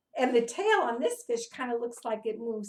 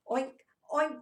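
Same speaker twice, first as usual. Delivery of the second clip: mild pig oink; 2 semitones higher than usual. Retold or imitated. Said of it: "oink like a pig".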